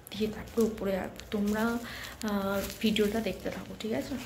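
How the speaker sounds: soft secretive murmur, barely voiced; hushed voice. Real, not acted. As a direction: whisper so nobody in the house hears. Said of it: "আমি আস্তে আস্তে কথা বলছি কারণ তোমরা বুঝতেই পারছো". (লুকিয়ে ফিসফিস করে বলা)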